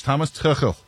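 Tuchel with a throaty German ch; German-style "Tuchel", guttural ch; German pronunciation. Shown as a demonstration. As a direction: say Tuchel the German way, raspy ch in the middle. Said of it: "how I'm gonna say it with my, uh, German background".

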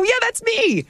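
very high, squeaky retold delight; excited retold reply. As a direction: answer in a high, thrilled little voice. Retells answering to own name.

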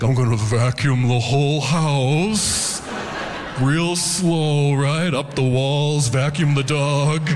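slow, spaced-out stoner voice; stoned dreamer. Retold or imitated. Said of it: "just be like".

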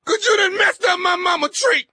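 mock sobbing shout; fake crying. Prank caller crying to the driver about the tree, fake sob. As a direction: blubber it out, playing wounded. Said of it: "What the hell you crying for".

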